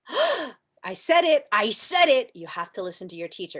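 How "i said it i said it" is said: mock triumphant.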